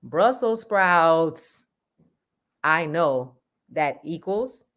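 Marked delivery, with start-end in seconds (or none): 0.0-1.6 slow, drawn-out yell of the words; stretched angry yell. Shown as a demonstration. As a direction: bark out Brussels sprouts in anger. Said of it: "If they yelled".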